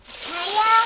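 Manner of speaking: high squeaky rising hiya; mock high-pitched greeting. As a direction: chirp it up high like a cartoon.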